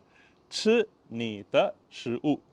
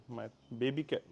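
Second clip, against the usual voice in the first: ordinary talk, nothing marked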